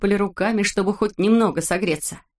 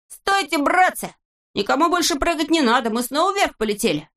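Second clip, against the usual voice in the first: much higher, urgent yell; alarmed shout; 9 semitones higher than usual. A narrator's reading. Neznaika stops the others jumping, much higher urgent shout. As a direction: stop them before they jump. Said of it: "и закричал".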